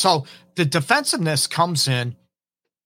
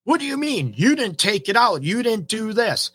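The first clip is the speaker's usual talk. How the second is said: high, shrill defensive snap, voice jumps up; defensive retort; 9 semitones higher than usual. Retold or imitated. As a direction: throw the blame back like a stung partner. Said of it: "You get defensive".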